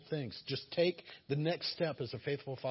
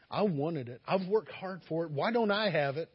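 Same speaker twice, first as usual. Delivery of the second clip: a touch of whiny envy, a bit louder; mock envious complaint; 3 semitones higher, 5 dB louder than usual. Preacher imitating an envious listener's complaint, mildly whiny. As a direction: grumble like the one left out.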